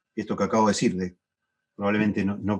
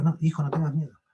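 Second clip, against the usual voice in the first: padre tranquilizando; 6 semitones higher, 3 dB quieter than usual. Retold or imitated. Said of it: "y le digo".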